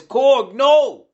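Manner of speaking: high, loud cry of dismay; distressed cry. A narrator's reading. Elo sees her fallen comrade, distressed high cry. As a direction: wail the name in horror.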